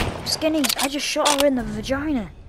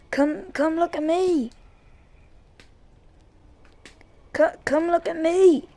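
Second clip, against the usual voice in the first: calling out; 5 semitones higher than usual. Real, not acted. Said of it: "call out to the walkers".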